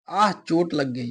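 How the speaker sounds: slow, mildly pained demo cry. Shown as a demonstration. Teacher demonstrating an exclamation of hurt, mildly pained. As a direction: act out a slight hurt, unhurried. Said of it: "ये दर्द वाला है".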